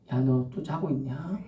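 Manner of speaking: God softly asking a sleeper, a touch quiet and slow; gently spoken God. Acted. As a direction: nudge him softly, almost coaxing. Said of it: "하나님 살살 말해요".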